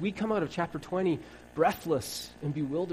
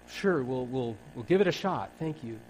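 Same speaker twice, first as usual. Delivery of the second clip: lower, placating mock agreement; humoring; 5 semitones lower than usual. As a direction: humor the stranger politely. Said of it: "humoring Jesus".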